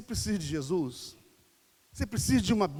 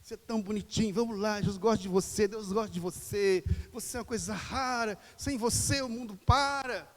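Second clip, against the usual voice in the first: butter them up like a pet; mock cajoling of a reluctant person; coaxing flattery. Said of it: "queremos insistir com as pessoas".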